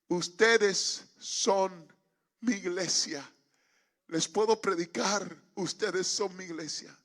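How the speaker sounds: slow, broken-up plea after the shouting; halting appeal. Retold or imitated. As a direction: ask it in separated phrases, no longer yelling. Within earshot, no longer shouting.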